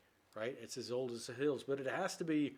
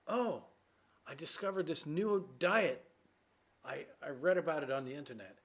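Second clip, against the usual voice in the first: put-on excited girlfriend. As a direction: sell the new diet with enthusiasm. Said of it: "And she says".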